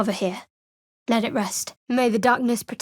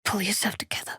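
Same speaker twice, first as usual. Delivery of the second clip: whisper; 7 dB quieter, faster than usual. Acted. Hushed remark to companion.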